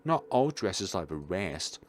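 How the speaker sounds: put-on high, happy child voice; proud little girl voice. Lily thanking mister for praising her dress. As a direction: beam about the special dress.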